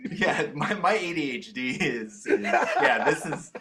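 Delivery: talking through laughter; laughing. Real, not acted. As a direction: giggle through the words. Laughing about ADHD.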